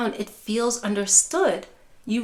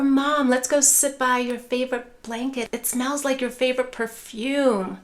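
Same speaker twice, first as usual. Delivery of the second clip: gentle redirect. Shown as a demonstration.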